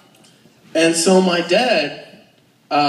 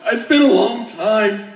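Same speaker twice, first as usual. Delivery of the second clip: laughing confession; 6 semitones higher, 4 dB louder, slower than usual. Retold or imitated. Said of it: "I'm like".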